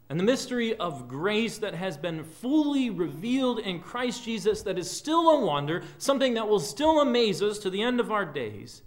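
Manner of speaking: earnest, lifted pulpit delivery; fervent preaching. Real, not acted. Preacher telling God's people of the mystery of grace, fervent. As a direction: preach it with swelling conviction.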